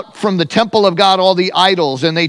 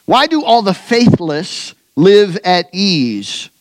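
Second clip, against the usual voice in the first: raised, intoned scripture prayer; preaching prayer; 3 semitones higher than usual. Acted. Preacher praying Jeremiah's complaint to God, raised and intoned. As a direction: pray it out like a preacher.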